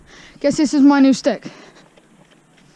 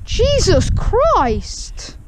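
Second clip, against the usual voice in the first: slow stretched exclamation, high; shocked drawn-out Jesus Christ; 6 semitones higher, much slower than usual. Real, not acted. Vlogger reacts in shock to what he sees, stretched-out exclamation. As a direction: drag out Jesus in disbelief.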